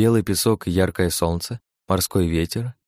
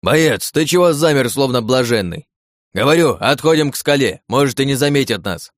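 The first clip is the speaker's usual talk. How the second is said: urgent shout; 5 semitones higher, 5 dB louder than usual. Acted. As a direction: shout him back to his senses. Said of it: "раздался крик помощника".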